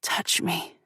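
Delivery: soft whispered plea; breathy groan. A narrator's reading. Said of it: "I groan out the words".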